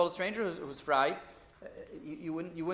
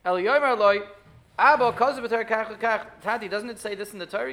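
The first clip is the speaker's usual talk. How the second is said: higher, asked as a rhetorical hint; respectful rhetorical question; 5 semitones higher, 8 dB louder than usual. Shown as a demonstration. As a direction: pose it as a gentle question. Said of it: "You say it, like, rhetorically".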